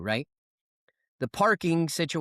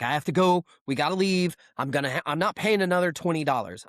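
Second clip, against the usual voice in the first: hammed-up worry about leaving; freaking out; 3 semitones higher than usual. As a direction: imitate a friend fussing over the parking meter. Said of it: "he starts freaking out".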